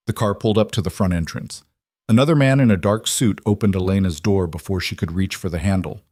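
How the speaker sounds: ordinary delivery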